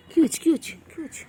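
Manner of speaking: sudden high, loud cry of surprise; startled at what the cats are doing; high, loud startled exclamation; surprised. Real, not acted. Surprised at pets' behaviour.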